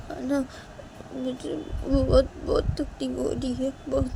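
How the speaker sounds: subdued, wounded plaint; hurt admission. Acted. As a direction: own up to the pain haltingly. Hurt character answers softly.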